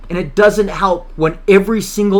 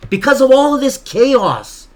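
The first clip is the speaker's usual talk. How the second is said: angry outburst; 4 semitones higher than usual. Real, not acted. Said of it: "I'm sorry I'm yelling at the microphone again".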